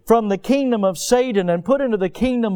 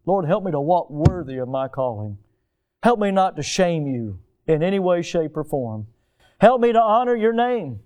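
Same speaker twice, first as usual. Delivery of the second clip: prayer; 2 semitones higher than usual. Acted. Pastor voices a prayer.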